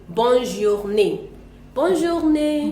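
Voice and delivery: "Bonne journée" slow, with BONNE stressed; model pronunciation. Shown as a demonstration. Teacher models bonne journée for the student, slowly. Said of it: "So I think you should say".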